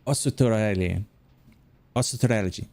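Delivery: Australian sounded out in Japanese syllables. Shown as a demonstration. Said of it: "I had to really sound it out".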